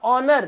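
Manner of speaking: ऑनर with a silent H; ऑनर with no H sound at the start; correct pronunciation. Shown as a demonstration. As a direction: say ऑनर, opening straight on the vowel. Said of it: "उसको ध्यान से सुनो".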